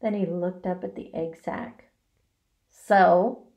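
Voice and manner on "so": loud, contemptuous single word; disgusted. A narrator's reading. Rat asked to fetch egg sac, disgusted. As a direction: push it out with disgust. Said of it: "he said in disgust".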